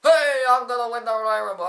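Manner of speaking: high, loud mock wrestler holler; three M B. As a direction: holler it like a hammed-up wrestling entrance. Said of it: "you have the three M B comes down".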